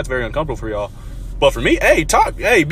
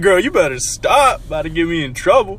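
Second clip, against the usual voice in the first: playful sass; 4 semitones higher, 4 dB louder, slower than usual. Retold or imitated. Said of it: "I said".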